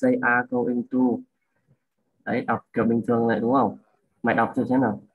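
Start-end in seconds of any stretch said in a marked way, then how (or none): 0.0-1.0 "They are going to" run together evenly; smooth, unbroken "They are going to"; connected reading. Shown as a demonstration. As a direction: link "They are going to" without breaks. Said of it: "đọc như này".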